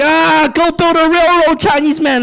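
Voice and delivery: a hint of a grumpy ghost; mock racist ghost.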